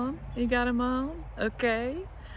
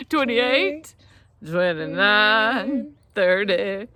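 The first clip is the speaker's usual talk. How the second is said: slow, louder jokester crow; Mister Crow voice; 4 dB louder, slower than usual. Shown as a demonstration. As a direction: ham it up like a joking crow, with laughs. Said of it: "So we're gonna kinda talk like this".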